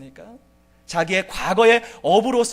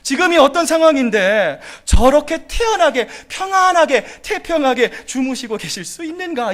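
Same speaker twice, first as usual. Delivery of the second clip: rising, louder baffled disbelief; disciples' bewilderment; 4 semitones higher, 4 dB louder than usual. Retold or imitated. Disciples wondering at the sleeping Jesus, baffled and rising. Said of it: "이렇게 아마 생각했을지도 모르겠어요".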